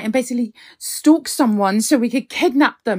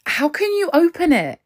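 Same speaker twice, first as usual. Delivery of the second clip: alarmed disbelief; 5 semitones higher than usual. Acted. Alarmed at the app.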